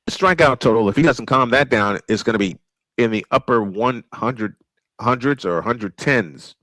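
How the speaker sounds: radio baseball announcer calling the game; steady play-by-play announcer voice. Acted. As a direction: call it like a ballpark broadcaster.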